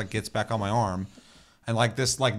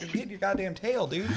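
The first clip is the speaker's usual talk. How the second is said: mock defensive reply; 10 semitones higher than usual. Player answers the monster.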